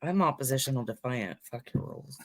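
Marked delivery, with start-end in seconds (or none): 1.4-2.2 breathy rebel whisper; whispered defiance. Pretend. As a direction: hiss it like a rebel.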